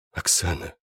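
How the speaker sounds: тихо, почти шёпотом; тихо зовёт её по имени. Acted. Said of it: "прошептал я". (тихий шёпот над раненой)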